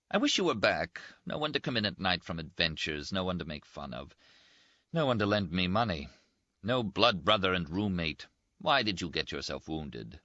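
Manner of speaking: toast him with mocking cheer; teasing Italian friend. Rinaldi voice.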